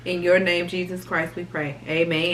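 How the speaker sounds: earnest mealtime prayer, fading at the end; saying grace. Acted. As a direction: pray over the food, softening into the amen. Says grace before eating.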